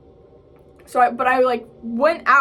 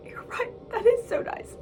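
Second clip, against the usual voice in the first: retold tearful agreement; 12 semitones higher, 6 dB quieter than usual. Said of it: "I start crying 'cause I'm like".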